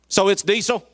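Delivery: lightly voiced annoyed woman checking; woman at pump. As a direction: skeptical woman asking.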